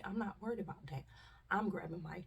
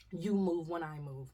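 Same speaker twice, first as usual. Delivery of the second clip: husband's command; 4 dB louder, slower than usual. Retold or imitated. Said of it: "That's what he said".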